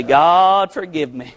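low, penitent plea to God; humble yourself and pray it low; acted prayer of repentance, voice falling away; humbled prayer. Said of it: "we can humble ourselves and say".

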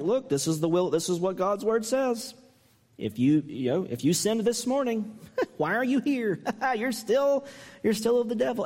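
high mock scolding, breaking into laughs; half-joking mock sternness. Preacher parodying a harsh reading to the church, laughing mock scolding. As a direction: scold them in jest, laughing through it. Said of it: "in a half joking way".

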